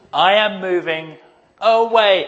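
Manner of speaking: alarmed. Real, not acted. Preacher picturing a corpse sitting up, mock alarm. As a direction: back off in mock panic. Preacher imagining a coffin rising.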